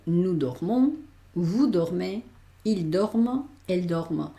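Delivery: dormons and dormez with the M clearly said; full root with M. Shown as a demonstration. Teacher models full-root plural for students: dormons with M. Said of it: "vamos a coger la raíz entera".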